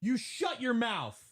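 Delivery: high, slow outraged yell; shouting match. Acted. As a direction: drag it out, scandalized.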